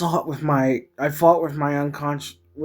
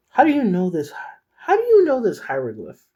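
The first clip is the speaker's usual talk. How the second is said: stern questioning; 7 semitones higher, 4 dB louder than usual. Acted. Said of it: "glaring, all worry gone from her eyes".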